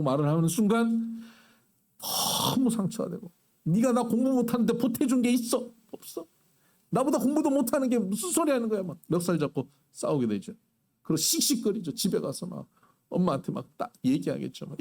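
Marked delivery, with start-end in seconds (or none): 3.6-8.8 mock angry retort. Acted schoolyard quarrel.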